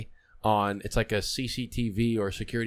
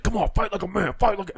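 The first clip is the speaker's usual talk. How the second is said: mock taunting; 10 semitones higher than usual. Acts out the drunk aggressor's taunt.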